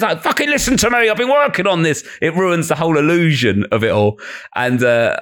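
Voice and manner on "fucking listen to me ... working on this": mock angry rant. Comic losing temper on stage.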